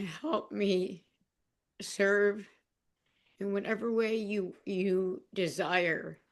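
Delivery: slow, earnest prayer, drawn out; slow retold prayer. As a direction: pray it gently, word by word. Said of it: "I just was saying".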